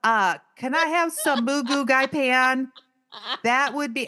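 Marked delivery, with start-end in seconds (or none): 0.0-2.7 slow, overly loud-sounding husband ordering food, lightly done; imitating loud, slow husband. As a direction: mimic him ordering slowly as if to a deaf waiter, without much volume. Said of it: "Really loud and just, loud and slow".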